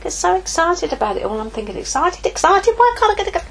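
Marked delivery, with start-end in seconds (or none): 1.8-3.4 frustrated excitement. Retold or imitated. Frustrated young Christian.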